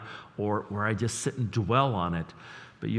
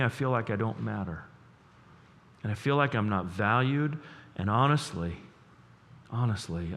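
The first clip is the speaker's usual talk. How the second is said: gentle tone. Shown as a demonstration. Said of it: "maybe saying things like".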